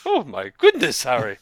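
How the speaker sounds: lightly voiced old wizard; Dumbledore impression. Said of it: "That's what Dumbledore sounds like".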